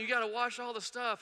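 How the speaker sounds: high-pitched retold holler; mock yelling. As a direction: imitate someone yelling orders, without full volume. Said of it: "And he's yelling".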